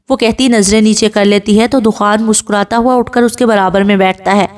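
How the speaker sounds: ordinary delivery, nothing marked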